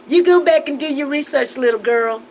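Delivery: a hint of a stern professor talking down; lightly voiced teacher putting a student in her place; stern professor scolding. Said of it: "this is how she said it".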